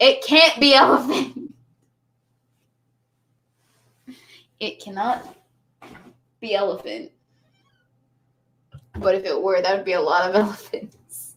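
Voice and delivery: intoxicated-sounding speech. After one tequila shot and some beer, drunk. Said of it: "I'm already that far gone".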